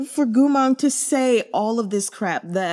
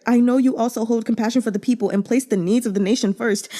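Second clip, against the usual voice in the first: quickly rattling off the line in mock disbelief; mocking quote; faster than usual. Reader mocking Gumang's words to viewers, fast scoff. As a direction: scoff at it as you repeat it. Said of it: "for Gumang to say, like".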